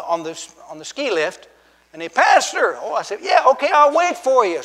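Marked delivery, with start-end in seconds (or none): 2.1-2.8 high, loud call from a distance. Retold or imitated. Skier calls from the lift. 3.2-4.6 high, loud shouted reply; calling back. Retold or imitated. Calls back to the skier.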